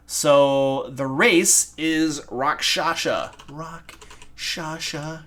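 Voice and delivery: very slow, stretched-out reveal of the race; drawn-out announcement. Acted. Game master announces the villain's race to chat, slow and drawn out. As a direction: draw out "Rakshasha" like a grand reveal.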